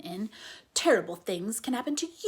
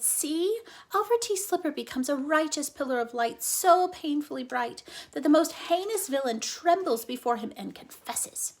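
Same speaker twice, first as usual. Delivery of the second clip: higher, louder proclamation; excited proclaiming; 4 semitones higher, 4 dB louder than usual. Acted. Flora proudly tells Ulysses of Incandesto's light. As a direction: proclaim it like a comic hero.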